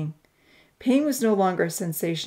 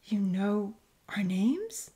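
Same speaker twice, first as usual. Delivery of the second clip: slow, hushed surprise; understated astonishment, rising at the end; surprised question; 2 semitones higher, 4 dB quieter, much slower than usual. Acted. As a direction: ask slowly, taken aback. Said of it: "she questioned in surprise".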